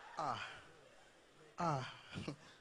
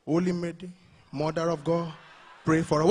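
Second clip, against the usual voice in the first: catholic prayer; 4 semitones lower than usual. Retold or imitated. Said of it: "see them pray like this".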